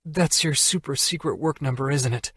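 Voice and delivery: Allie realising. Acted. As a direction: Allie to Jack about the work phone, dismayed. Allie realises it's work.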